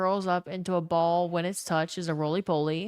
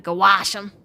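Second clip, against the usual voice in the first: grandpa yelling; 8 dB louder than usual. Retold or imitated. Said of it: "voice is raspy as shit, and he yells everything".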